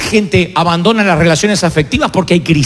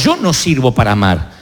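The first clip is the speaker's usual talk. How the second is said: lower, resigned quote; mock defeated voice; 8 semitones lower than usual. Preacher voicing a listener who gives up on love, lower and resigned. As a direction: sigh it out like someone giving up. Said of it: "y digas".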